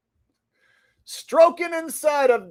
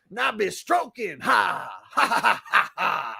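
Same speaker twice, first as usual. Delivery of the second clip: laughing; 3 semitones lower, 3 dB quieter than usual. Real, not acted. Laughing through the song.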